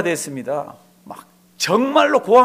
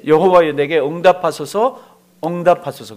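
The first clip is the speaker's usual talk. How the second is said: louder, earnest plea; Elijah's prayer; 6 dB louder than usual. Retold or imitated. Elijah calling on the LORD, a loud fervent plea. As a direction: cry out to God with fervour. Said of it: "그렇게 돼 있죠".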